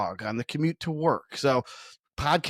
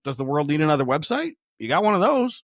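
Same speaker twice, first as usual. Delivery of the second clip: tongue in cheek; 2 semitones higher, 4 dB louder than usual. Retold or imitated. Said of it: "And I always say".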